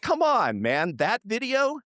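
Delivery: very high come on, man; squeaked that video; incredulous protest. Retold or imitated. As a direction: plead in disbelief. Mock protest at wife.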